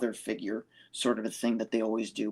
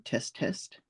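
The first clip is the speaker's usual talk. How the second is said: breathy test, no voice; quiet unvoiced check; whispered mic test; 6 dB quieter than usual. Shown as a demonstration.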